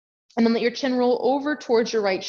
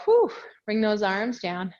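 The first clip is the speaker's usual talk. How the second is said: out of breath. Real, not acted. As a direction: speak while catching breath. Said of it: "but I am out of breath".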